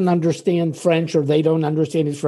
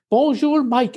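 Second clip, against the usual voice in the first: amused greeting; 6 semitones higher than usual. Retold or imitated. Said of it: "and then they laugh".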